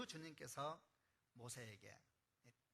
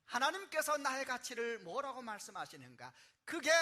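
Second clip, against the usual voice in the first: high, loud, driving sermon; full-force preaching; 7 semitones higher, 12 dB louder than usual. Acted. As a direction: preach it to the rafters. Preaching climax.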